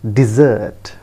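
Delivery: "dessert" said dih-ZURT, stress on the second syllable; correct dessert. Shown as a demonstration. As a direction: land on the end of "dessert". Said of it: "it is pronounced as".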